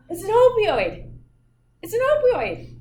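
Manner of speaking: high and loud, stressing opioid; emphatic declaration. Real, not acted. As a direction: proclaim it to the class. Loud emphatic teaching point.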